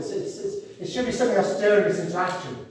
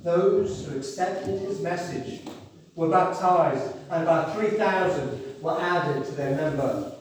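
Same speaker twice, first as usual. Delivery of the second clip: slow, weighty Bible reading; solemn scripture reading; slower than usual. Acted. Preacher reading scripture to the congregation, slow and solemn. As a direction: read the verse with solemn pauses.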